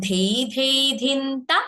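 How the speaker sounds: ধেই ধেই ধিনতা with breathy ধ and a rising lilt; aspirated consonant demo. Shown as a demonstration. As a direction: say "ধেই ধেই ধিনতা" with a puff on each ধ, not দেই. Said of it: "এইভাবে".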